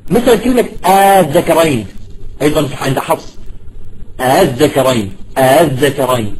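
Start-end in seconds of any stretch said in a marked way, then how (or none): 1.2-1.8 "الذكرين" with the second hamza softened; eased hamza. Shown as a demonstration. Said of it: "شدة الهمزة بالتسهيل". 4.2-6.3 lower-pitched "الذكرين", second hamza softened; eased hamza. Shown as a demonstration. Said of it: "ما نقول آ".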